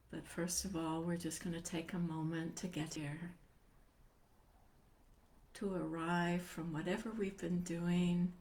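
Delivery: calm settling-in voice with long pauses; guided meditation. Acted. Meditation teacher helping listeners arrive and feel themselves sitting, calm guiding voice. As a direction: gently guide listeners into stillness, phrase by phrase.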